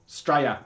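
Straya said as one clipped Australian word; a mock Australian Straya; Aussie Straya. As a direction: drop the start, say Straya, Australian-style. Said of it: "they call Australia just".

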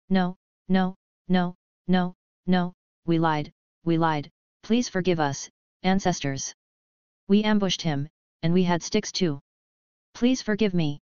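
mild frightened begging; frightened pleading. Acted. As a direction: plead for forgiveness, scared. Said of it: "shouting in a frightened voice".

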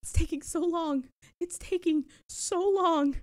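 small impatient complaint. Real, not acted. Waiting impatiently for loading.

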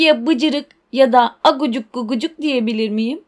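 a lightly put-on cooing voice for the pet names; mock him with baby names, lightly; baby talk mockery. Harry mocks with baby names. (hafif taklitli, alaycı bebek sesi)

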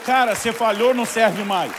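loud, high, scolding shout; harsh rebuke shouted. Retold or imitated. Preacher voices the rejection Jesus did not give, shouting. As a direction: yell it like a condemnation.

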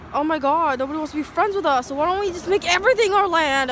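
mocking whiny voice. Mimicking the British deciding to take land, hammed-up whine. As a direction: play the British whining and scheming, hammed-up.

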